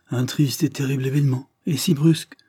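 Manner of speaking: the lawyer bursts out at the news; exclaiming. Acted. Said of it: "s'écria l'avocat". (s'écrie, plus aigu et plus fort)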